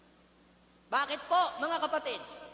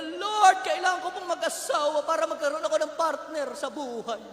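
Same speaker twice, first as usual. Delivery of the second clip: loud pleading excuse; 4 dB louder than usual. Retold or imitated. Young adult pleading to the Lord to marry first, loud. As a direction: call out "Lord" and bargain.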